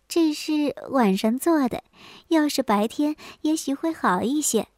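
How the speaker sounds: slightly coy, softened wife; 羞答答. Acted. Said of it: "有些羞答答地说". (有些羞答答地轻声说)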